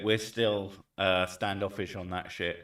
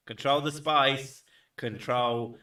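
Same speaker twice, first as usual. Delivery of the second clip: raised, drawn-out dramatic chant; mock shouting; 3 semitones higher, 4 dB louder, slower than usual. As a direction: intone it like a grand command. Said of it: "stop shouting".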